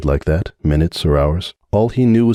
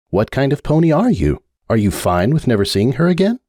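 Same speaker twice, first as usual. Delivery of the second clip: higher bookish unicorn voice, pressing; Sunburst's voice; 6 semitones higher than usual. Acted. Sunburst demanding Hoops explain himself, pressing. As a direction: confront him, demanding an answer.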